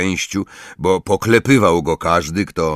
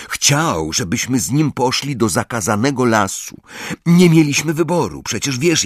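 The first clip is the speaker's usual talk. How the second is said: higher, earnest explanation; Harry explaining; 5 semitones higher than usual. Acted. Harry explaining to Ron about Hagrid, earnest. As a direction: justify it plainly to a friend.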